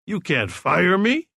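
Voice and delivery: put-on sly, slow, rising drunk question; drunken cunning. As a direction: slur it with a crafty grin. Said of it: "with drunken cunning".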